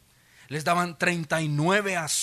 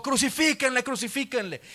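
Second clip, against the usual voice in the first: crowd shouting; 6 semitones higher than usual. Retold or imitated. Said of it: "La gente gritó".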